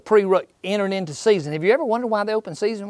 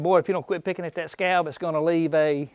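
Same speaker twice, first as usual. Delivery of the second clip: a hint of a scolding mother, trailing softer; mild mock mama scolding; 6 dB quieter than usual. Mama warning her boy about the scab, mild scolding. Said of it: "your mama telling you".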